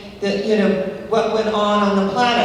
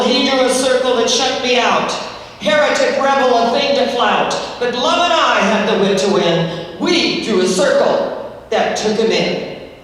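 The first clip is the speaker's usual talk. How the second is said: louder, ringing poem recitation; a preacher recites a poem, louder; poem recital; 4 dB louder than usual. Acted. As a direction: declaim the verse to the congregation.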